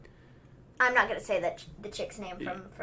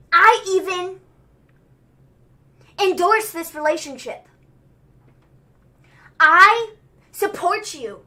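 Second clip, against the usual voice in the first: mock-grand proclamation with long pauses; Seth Rollins; 4 dB louder than usual. Podcaster as Seth forgiving and endorsing Murphy, grandly performed promo. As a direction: imitate a theatrical wrestling promo, swelling toward the end. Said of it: "And Seth Rollins is like".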